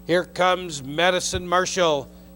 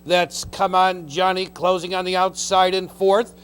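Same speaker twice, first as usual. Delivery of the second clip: race caller; 3 dB louder than usual. Real, not acted. Race call stretch run.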